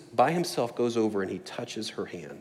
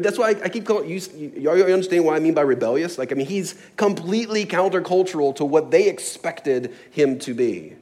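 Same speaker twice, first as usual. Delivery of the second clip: raised, insistent preacher's voice; emphatic preaching; 7 semitones higher, 7 dB louder than usual. Real, not acted. Preacher explaining rebellious Jesus to the congregation, emphatic preaching. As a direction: preach it higher and louder.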